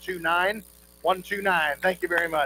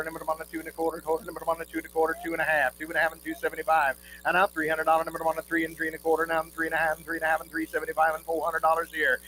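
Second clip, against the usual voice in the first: rapid rhythmic bid chant; auctioneer; faster than usual. Real, not acted. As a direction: rattle off the bids in a singsong roll.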